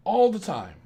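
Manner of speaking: ordinary delivery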